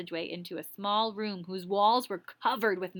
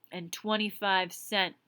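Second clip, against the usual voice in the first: slow gruff Tiny. Acted.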